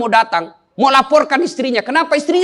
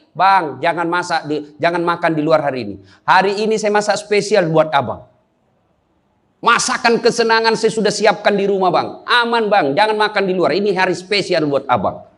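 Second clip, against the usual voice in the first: lower, coaxing wife's voice, lightly done; imitated wife's message; 6 semitones lower than usual. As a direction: sweetly coax her husband to come home for a special meal. (suara istri membujuk suami dengan lembut)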